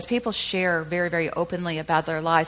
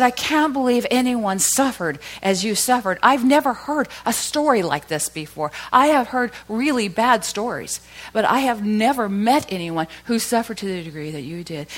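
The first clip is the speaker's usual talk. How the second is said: a touch higher and louder, earnest retelling; retold own words; 4 semitones higher, 5 dB louder than usual. Radio host telling the guest her story stunned him. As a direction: replay what you told her. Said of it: "And I said".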